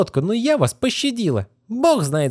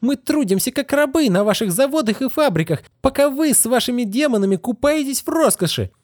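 higher, pouring out her hatred; a girl's mock hysterical tirade, voiced higher; furious outburst. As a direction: tear into him without pause. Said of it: "Да у вас истерика".

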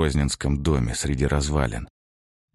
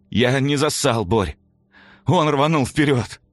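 creaky grating voice; 8 semitones higher, 4 dB louder than usual. A narrator's reading. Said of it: "Скрипучим, раздражающим голосом промычал он".

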